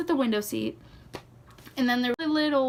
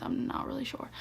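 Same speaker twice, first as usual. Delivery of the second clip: whispering; 9 dB quieter than usual. Real, not acted. Whispered aside at the end.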